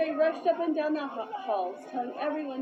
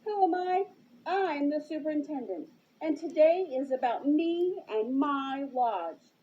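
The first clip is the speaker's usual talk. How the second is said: tantrum; 3 semitones higher, 4 dB louder than usual. Acted. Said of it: "sounded like a child having a temper tantrum".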